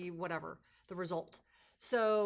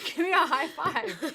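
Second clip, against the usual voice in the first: high, slow and loud, laughing through it; playful mom, giggling and loud; laughing high five; 7 semitones higher, 9 dB louder, slower than usual. Retold or imitated. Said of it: "I'm like".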